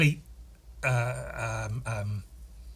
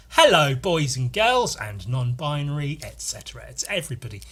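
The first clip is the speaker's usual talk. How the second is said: put-on kids' presenter greeting. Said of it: "if I say".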